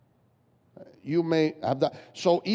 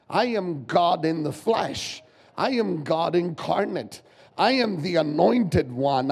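Jesus' declaration. Acted. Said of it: "Jesus' statement of emancipation".

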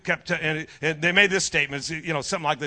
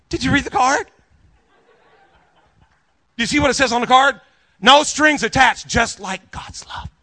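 high, raised voice of an amused diner; excited exclamation; 7 semitones higher, 5 dB louder than usual. Retold or imitated. Gentleman reads the card to his table, excited exclamation. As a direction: announce it to the whole table, high and loud.

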